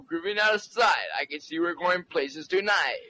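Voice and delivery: smooth radio deejay patter; disc jockey voice. Acted. Asked to sound like a disc jockey, smooth deejay patter. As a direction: lay it on like a late-night deejay. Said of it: "Can you sound like a disc jockey?".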